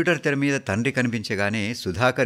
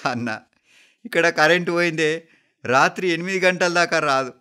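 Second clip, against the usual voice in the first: high, loud distressed report; acted tearful, raised voice; 8 semitones higher, 5 dB louder than usual. A narrator's reading. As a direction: break bad news to your brother, upset. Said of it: "ఏడుస్తూ చెప్పాడు".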